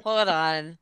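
high laughing exclamation. Real, not acted. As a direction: catch yourself mid-laugh. Laughing realization.

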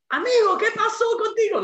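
high, loud, laughing amigo what's wrong with you; laughing disbelief. Retold or imitated. Storyteller to the mugger groping his pockets, laughing in disbelief. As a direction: laugh through the question in disbelief. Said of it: "And I was like".

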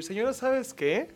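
mock scolding. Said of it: "me voy a emputar y le voy a decir".

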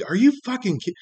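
high, cracking disbelief, cut off mid-word; like you can't believe what you're hearing. Retold or imitated. Telling off the lazy customer, sharp high disbelief. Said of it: "And I'm just like".

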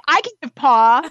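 high put-on voice for a pet; annoyed dog. Owner voicing jealous Grover offering paw, high mock-annoyed voice. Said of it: "annoyed that I'm not taking it".

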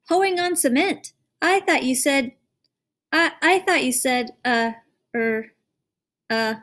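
put-on a small girl anxiously asking her father; little girl voice.

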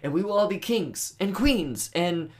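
bad Russian accent. Mocking the Russian guy's map speech, bad Russian accent. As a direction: do a hammy Russian villain dividing up land. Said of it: "doing a bad Russian accent".

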